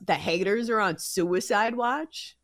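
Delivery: slow, mocking echo ending on a rise; scoffing echo; incredulous repeat. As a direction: repeat it in disbelief. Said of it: "would ever say that with a straight face".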